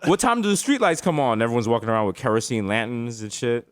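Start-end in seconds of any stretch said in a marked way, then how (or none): 0.1-1.4 high-pitched incredulous question; hammed-up alarmed disbelief; mock bewilderment. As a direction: ask it like a baffled, lost visitor. Bewildered visitor questioning locals.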